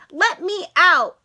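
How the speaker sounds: loud, slow pleading cry; begging. Acted. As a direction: beg to be let out of the trap. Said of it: "Sydney begged".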